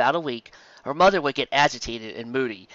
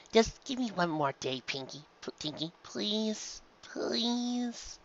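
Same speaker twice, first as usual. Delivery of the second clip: tearful pleading; 9 semitones higher, 8 dB quieter, slower than usual. A narrator's reading. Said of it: "on the verge of tears".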